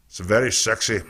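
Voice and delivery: put-on half-hearted Scottish accent; botched Scottish accent. Host reacting to Idris Elba, botched Scottish accent. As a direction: attempt a Scot and slip out of it. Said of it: "now that was Scottish".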